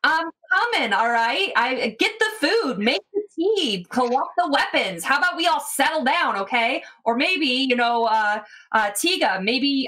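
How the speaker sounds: lightly voiced exasperated cook, pitch jumping up; a touch of put-upon kitchen grumbling; harried cook. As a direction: complain out to the room from the kitchen. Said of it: "you hear from the kitchen again".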